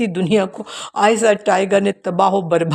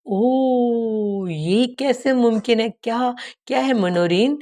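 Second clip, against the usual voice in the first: shocked gasp; 4 semitones higher, slower than usual. Acted. Minorin's eyes widen in shock.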